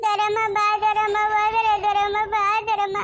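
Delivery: slow, sobbing calls of her name; crying calls. Acted. Girl crying after the aunt who has gone. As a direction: call her back, weeping.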